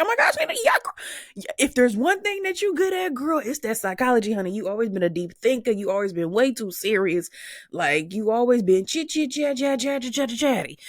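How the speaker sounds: very high, squealing mock-girlfriend voice; gushing friends. Imitating everyone hyping her for psychology, squealing gush. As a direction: gush like an overexcited bestie. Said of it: "everybody's like".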